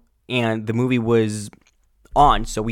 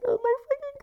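disgusted shriek; 6 dB quieter, much faster than usual. Real, not acted. Disgust at the smell.

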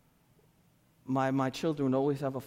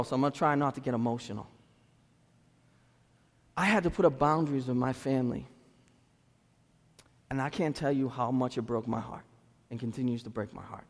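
holding back tears; 4 semitones lower, 3 dB quieter than usual. Real, not acted. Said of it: "I don't wanna cry".

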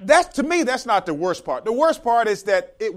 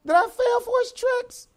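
slow, much higher, stunned lament; regretful disbelief; 10 semitones higher, 5 dB louder than usual. Pretend. People realizing they were tricked by the devil, stunned slow lament. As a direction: mourn how you were fooled. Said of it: "and then it said".

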